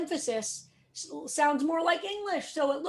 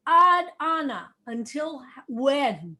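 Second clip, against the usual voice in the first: an earnest plea, louder, slowing into until when; pleading; 7 dB louder, slower than usual. Shown as a demonstration. Teacher voicing the psalmist's plea to God, pleading. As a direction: cry out to God how long. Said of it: "very much a plea".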